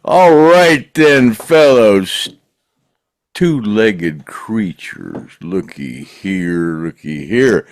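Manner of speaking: slow, loud drawn-out host call; a hint of a showman greeting; hammy show host.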